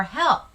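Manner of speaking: emphatic "Help" as an exclamation; emotional exclamation. Shown as a demonstration. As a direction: cry out "Help" mildly for the example. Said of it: "after the emotional word".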